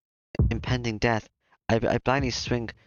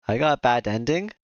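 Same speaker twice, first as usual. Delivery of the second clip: louder, stunned player; can't believe the bad ending; real disbelief; 4 dB louder than usual. Real, not acted.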